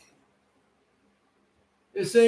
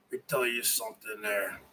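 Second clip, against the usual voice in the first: much softer, fast mutter under the breath; very soft throwaway; 13 semitones lower, 16 dB quieter, much faster than usual. Shown as a demonstration. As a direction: toss it off quietly before the real take. Same line, muttered then shouted.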